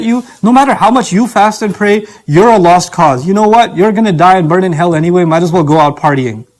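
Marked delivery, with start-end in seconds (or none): 3.8-6.5 lower, lazy devil's coaxing; a lightly voiced tempter urging you to give up; tempting devil voice. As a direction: drop low and lure them, careless. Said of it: "Or he'll come and tell you".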